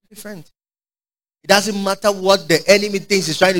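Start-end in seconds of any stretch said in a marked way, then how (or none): 0.1-0.5 breathed echo. Real, not acted. Soft echo.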